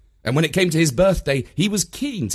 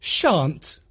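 mild refusal; 4 semitones higher than usual. A narrator's reading. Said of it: "said Mum".

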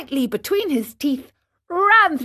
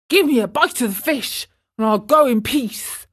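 whining dog; 3 semitones higher, 3 dB louder than usual. Acted. Hungry dog begging the fisherman, lightly whining. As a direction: plead lightly for a bite.

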